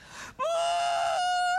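very high, exaggerated wail; hammed-up bawling; mock crying. Answers her sister's cheery call, comic high-pitched wail. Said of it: "just crying".

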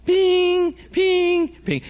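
loud, very high-pitched ringing pings; imitated phone ping. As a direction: sing out a piercing alert tone, well above speech. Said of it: "they're pinging the ph-, the phone, right?".

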